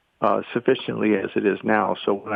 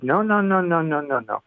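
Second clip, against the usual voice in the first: higher-pitched, rapid-fire retold objection; mock protest; 5 semitones higher than usual. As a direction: imitate experts dismissing an idea outright. Retold protest of outraged psychologists.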